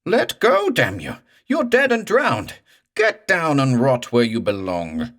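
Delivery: high, loud screeching yell. Acted. Morse screams at the corpse, high and shrill. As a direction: screech it up into a thin crescendo. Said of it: "voice went screeching up to a high, thin crescendo".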